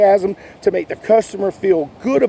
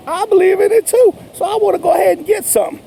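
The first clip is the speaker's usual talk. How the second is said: higher, quick and eager customer voice; convinced customer; 10 semitones higher, faster than usual. Retold or imitated. Customer trusting the salesman and buying, eager and fast. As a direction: rush to say yes, fully sold. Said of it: "people think that".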